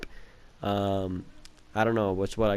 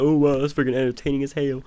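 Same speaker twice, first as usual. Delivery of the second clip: mock amazed babysitter; 3 semitones higher, 3 dB louder than usual. Old babysitter entertained by anything, mock amazement. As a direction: imitate an easily entertained babysitter.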